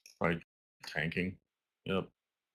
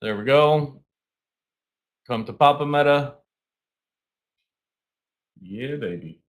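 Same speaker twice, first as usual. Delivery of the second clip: greedy glee; 5 semitones higher, 4 dB louder than usual. Real, not acted. Watching Meta sell off in glee.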